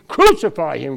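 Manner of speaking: loud, high mock crowd shout; retold mob scream. Preacher voicing the crowd at the crucifixion, retold scream. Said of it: "They didn't have to scream".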